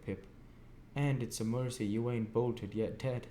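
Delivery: an uneducated smith gravely confiding his own past; Joe, earnest. A narrator's reading. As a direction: warn the boy with rough kindness. Joe speaks to Pip.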